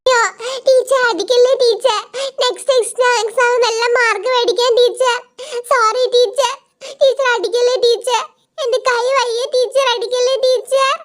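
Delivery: put-on high child voice pleading not to be hit; mock-frightened kids pleading with the teacher; begging schoolkids. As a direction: beg the teacher to spare the cane. Kids beg not to be caned.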